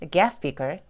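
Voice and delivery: "Guest speaker" with the first noun strongest; front-weighted "Guest speaker"; stress on GUEST. Shown as a demonstration. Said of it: "강세가 앞쪽 명사에 조금 더 실리죠".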